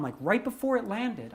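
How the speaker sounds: usual speaking voice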